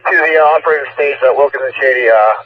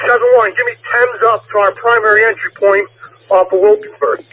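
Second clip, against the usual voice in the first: higher, pressed radio orders; urgent radio call; 8 semitones higher than usual. Real, not acted. Urgent radio orders during shooting.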